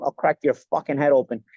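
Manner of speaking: imitated Chicago Italian American tough guy, hard R's; lightly mimicked Chicago accent with R's leaned on; Chicago accent, strong R's. Actor quotes Joe Pesci's movie threat, in a Chicago accent. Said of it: "enunciates the R's a lot stronger".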